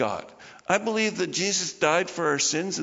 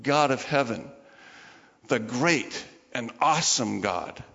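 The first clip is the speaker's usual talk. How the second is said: reverent address; 5 semitones lower than usual. Shown as a demonstration. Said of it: "we ought to start our prayers sometimes with".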